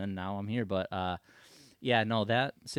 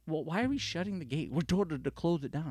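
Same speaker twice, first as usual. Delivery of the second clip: high, louder defensive retort; defensive sheriff; 8 semitones higher, 3 dB louder than usual. Retold or imitated. Sheriff arguing back at the gate boss, high and loud. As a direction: push back hard.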